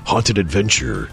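deep dramatic trailer narrator; low, dramatic movie-trailer read. Acted. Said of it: "my trailer voice".

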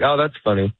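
slightly hurried polite brush-off. Shown as a demonstration. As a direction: say it briskly, not really amused. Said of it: "You say it a little bit quicker".

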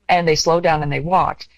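normal talking voice

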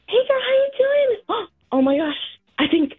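lightly voiced mom, getting frantic over a bird; mom impression. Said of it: "gonna do an impression of my mom".

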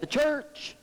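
high, rising "The church." as a question. Acted. Pastor quizzing the congregation, high rising question. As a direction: toss up "The church." like a quiz to the room. Pastor asks then answers himself.

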